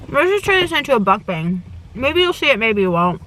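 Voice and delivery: talking with mouth full. Real, not acted. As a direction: speak around a bite of food. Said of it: "I talk with my mouth full all the time".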